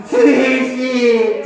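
slow, theatrical pleading call; plaintive plea. Shown as a demonstration. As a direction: stretch the name out imploringly. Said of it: "애절하게 불면". (천천히 애절하게)

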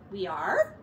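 high, rising surprised mouse; surprised squeak. Acted.

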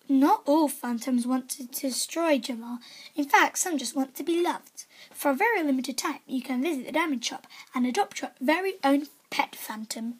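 announcer reading a game ad; playful game-ad narrator voice. Acted. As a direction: sell it like a trailer voiceover. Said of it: "That's my natural voice".

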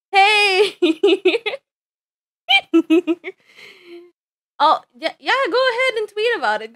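high, bubbly character greeting; excited Marjorie voice. Acted. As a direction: squeal hello to returning fans. VTuber greeting as excited Marjorie persona.

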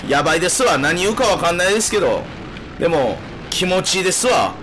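slurring tipsy streamer talk. Real, not acted. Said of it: "酔ってますわ". (酔っ払いの喋り)

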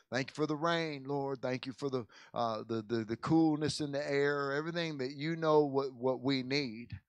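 gentle, reverent prayer to God. Acted. Pastor opens a prayer.

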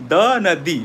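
"the" first as thuh, then as thee. Shown as a demonstration. Teacher asking viewers which "the" fits. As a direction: contrast "the" as thuh against "the" as thee. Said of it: "এটা উচ্চারণ করে বলতে হবে".

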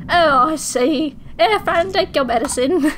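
drawn-out, hammed-up British voice; British accent. Telling Fran to take her medicine, British accent. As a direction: put on a lilting British accent. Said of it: "Why is everyone British?".

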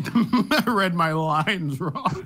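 slow, giggling repeat; laughing mock echo. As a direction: echo it back while laughing. Mocking a friend's slip.

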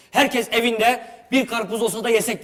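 drawn-out mock chorus of hungry viewers; audience voiced. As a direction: put words in the viewers' mouths with longing. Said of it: "dedi şu an".

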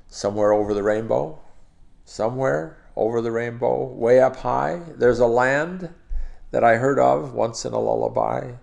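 song lyrics spoken as metered verse; spoken lyric with a lilting beat; rhythmic recitation. Shown as a demonstration. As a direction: recite in even phrases, lifting and stretching key words. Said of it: "shijo is a very natural, very beautiful sort of, uh, rhythm".

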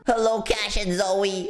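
slow, lightly voiced villain over an intercom; a hint of a sinister kidnapper; evil voice. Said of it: "I'm gonna speak in my evil voice".

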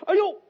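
high, loud aiyo of alarm; startled cry. Acted. Caught in a lie, Gao yelps in alarm. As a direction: yelp as if caught out.

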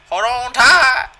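loud, high drawn-out shout; big stretched warning shout; loud call. Real, not acted. Calling out before the ride.

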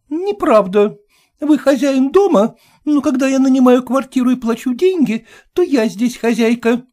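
high, loud rebuttal; indignant retort. Acted. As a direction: stand your ground firmly. Hostess argues.

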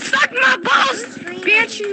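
high, drawn-out taunt; taunting shout. Real, not acted. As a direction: shout it slowly as trash talk. Trash talk at other players.

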